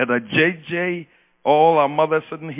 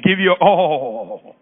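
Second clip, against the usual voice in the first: "Give your all" again, slow and louder; louder slow repeat; 5 dB louder, much slower than usual. Shown as a demonstration. Preacher has them repeat it louder to their neighbor. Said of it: "tell him or her again".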